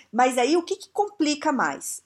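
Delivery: normal talking voice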